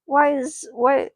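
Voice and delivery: a touch of upset retort; lightly voiced upset kid sister. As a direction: snap back, hurt and annoyed. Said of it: "she's upset".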